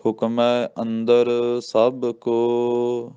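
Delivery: ਹੁਕਮੈ with a full "ai" and ਕੋ drawn long; very slow chant stretching ਕੋ; ਕੋ ਲੰਮਾ ਕਰਕੇ; careful recitation. Shown as a demonstration. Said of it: "ਇੱਥੇ ਵਿਸਰਾਮ".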